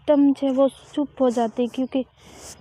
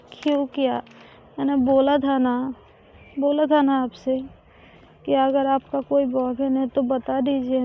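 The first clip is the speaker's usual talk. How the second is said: choked voice. Acted. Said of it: "फरी हुई आवाज़ में बोलती है".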